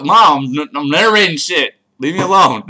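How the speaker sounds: loud exasperated protest; real annoyed shout. Real, not acted. Narrating gamer protesting to mom at the door, exasperated shout. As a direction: shout it at someone interrupting you. Telling interrupting mom to leave.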